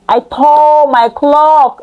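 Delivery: drawn out, slow; slow, grave read; slow dramatic reading. Acted. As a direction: stretch each word slowly.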